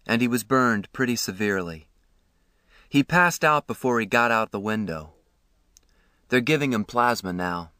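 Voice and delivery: a kind man with grave news, understated; lightly voiced ambulance man, sober. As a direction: break the bad news gently.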